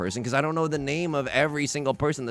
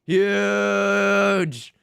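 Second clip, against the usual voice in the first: excited call; 6 semitones higher, 3 dB louder than usual. Real, not acted. Announcing the big hand.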